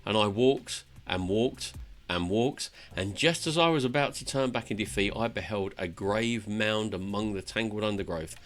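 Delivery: lightly acted fantasy monologue; earnest storyteller reading game dialogue; dramatic tale telling. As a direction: recount it like an epic journey. Reads dwarf's tale in character.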